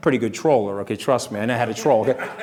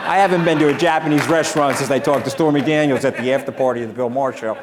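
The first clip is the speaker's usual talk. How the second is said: laughing; 2 semitones higher, 6 dB louder than usual. Real, not acted. Laughing over the Stormy Daniels joke.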